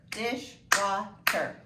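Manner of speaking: "dishwater" slowly broken into three beats; syllable by syllable. Shown as a demonstration. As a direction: sound out "dishwater" as dish-wa-ter. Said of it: "how many syllables".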